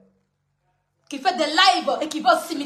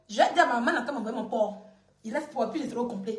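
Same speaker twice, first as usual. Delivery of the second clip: mock whiny child; 8 semitones lower, 7 dB quieter, faster than usual. Mocking a childish rival.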